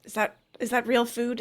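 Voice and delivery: usual speaking voice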